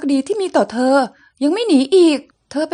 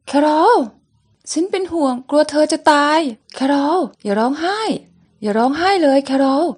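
voicing each character in turn through a comic; lively comic-book reading; comic read aloud. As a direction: act out the comic panels one by one. Reads comic, voicing all characters.

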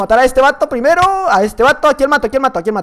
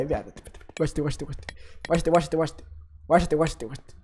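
hushed sneaking; 7 semitones lower, 13 dB quieter than usual. Real, not acted. Sneaking up on a player.

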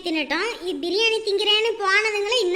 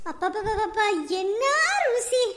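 delighted exclamation; slower than usual. Acted. Relishing biryani taste.

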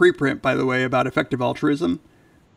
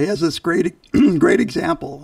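throat catching, hoarse edge; losing voice; 3 semitones higher, 4 dB louder than usual. Real, not acted. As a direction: voice giving out mid-sentence. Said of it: "Now I'm losing my voice".

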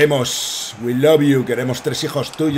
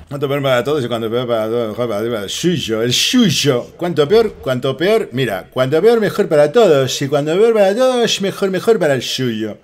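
hammed-up slurred-s catchphrase voice; catchphrase impression; 3 semitones higher, 5 dB louder than usual. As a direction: repeat it with mounting mock emphasis. Imitated catchphrase, repeated with growing force.

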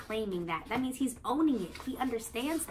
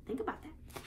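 hushed, softer invitation to think; whisper-soft nudge; soft prompt; 7 semitones higher, 9 dB quieter than usual. Acted. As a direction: lean in quietly. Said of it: "I want you to think about".

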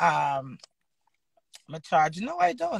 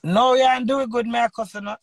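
louder, pushing back hard; defiant shout; 9 dB louder than usual. Pretend. Answers critic in mock quarrel.

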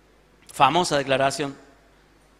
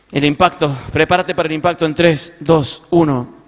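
mock countdown; 7 dB louder than usual. Bracing before a bombshell.

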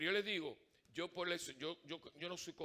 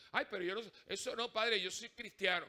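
protesting parishioner; 5 semitones higher, 5 dB louder than usual. Retold or imitated.

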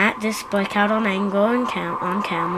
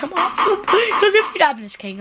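higher, fake-tearful pleading; mock crying; 9 semitones higher, 4 dB louder than usual. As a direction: pretend to cry while begging for approval. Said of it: "I'm not actually crying".

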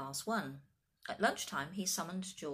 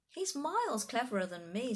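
put-on higher, proud girl; 6 semitones higher, 4 dB louder than usual. A narrator's reading. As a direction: boast about a younger brother. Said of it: "said Laura proudly".

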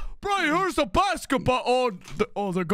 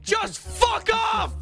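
angry shout; 6 semitones higher, slower than usual. Real, not acted. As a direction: bark it slowly. Shouting at Nogla.

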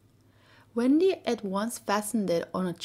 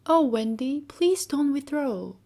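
great distress; 6 semitones higher, 5 dB louder than usual. A narrator's reading. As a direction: beg her not to go, upset. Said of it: "Peter exclaimed in great distress".

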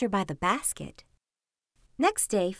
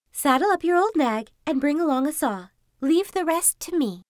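fox voice; 5 semitones higher than usual. Acted. Fox gives orders.

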